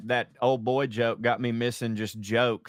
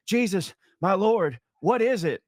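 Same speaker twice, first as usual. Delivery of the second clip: exhausted Peter; 7 semitones higher, 4 dB louder than usual. Acted. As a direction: drag it out like near passing out. Dying Peter reaching Jesus.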